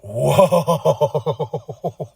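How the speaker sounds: low, long stunned whoa; drawn-out low amazed whoa; awed whoa. Retold or imitated. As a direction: let it sink in, amazed. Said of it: "I was like".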